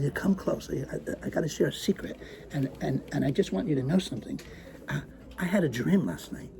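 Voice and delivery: hushed conspiratorial secret; quiet shifty confiding. Acted. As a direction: lean in, share a secret softly. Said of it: "I lowered my voice even more".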